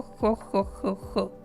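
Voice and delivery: put-on soft old man's chuckle. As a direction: imitate an old man's hoo hoo. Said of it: "with the old man voice".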